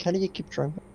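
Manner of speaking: high-pitched, disbelieving question; incredulous. Retold or imitated. Incredulous quote of own reaction.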